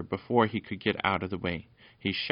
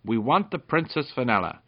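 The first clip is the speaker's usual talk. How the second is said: raised, louder, higher voice; shouted demand; 5 semitones higher, 6 dB louder than usual. A narrator's reading. Peter demands the princess from the dog, shouted. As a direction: demand it boldly. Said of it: "he shouted to the dog".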